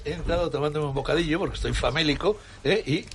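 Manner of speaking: talking with his mouth full. Real, not acted. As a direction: speak through a bite of sandwich. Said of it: "para que hable con la boca llena".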